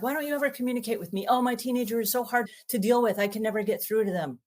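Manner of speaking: high, fast exasperated parent; complaining parent. Retold or imitated. Parent complaining about teen, high and fast. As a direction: rattle off the grievance in a high whine. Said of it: "our parents are like".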